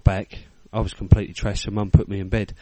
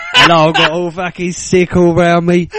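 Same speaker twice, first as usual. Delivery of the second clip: high, loud and slow mock yell; mum still shouting; 7 semitones higher, 6 dB louder than usual. Mum yelling at his mates, high and loud. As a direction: keep up mum's furious telling-off. Continues mum's shouted quote.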